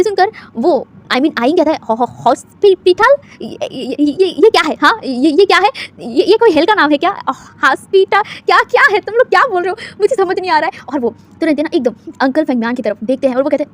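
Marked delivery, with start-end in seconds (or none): 1.9-10.8 bewildered. Acted. Boy bewildered by hospital.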